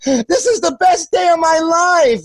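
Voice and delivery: a hint of an eager young boy asking for a beer; kid camper voice. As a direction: ask sweetly like a young camper. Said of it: "He goes".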